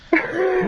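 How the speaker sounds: high, loud burst of laughter; incredulous laugh. Real, not acted. Player laughing at an impossible vote count, incredulous laugh.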